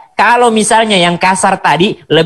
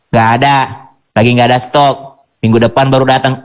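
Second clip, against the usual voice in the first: lower, mildly offhand replies; dismissive seller; 5 semitones lower than usual. Retold or imitated. Shopkeeper to browsing customer, mildly dismissive. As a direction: lightly brush the customer off.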